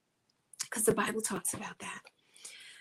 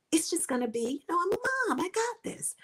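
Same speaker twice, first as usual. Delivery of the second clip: mock confident; 9 semitones higher, faster than usual. Mom mocking past confident self.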